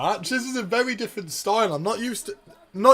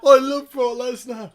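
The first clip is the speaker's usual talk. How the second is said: higher and louder, gushing; excited declaration; 5 semitones higher, 5 dB louder than usual. Real, not acted. Fan gushing about Brock to the viewers, excited. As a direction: blurt it out like a thrilled fan.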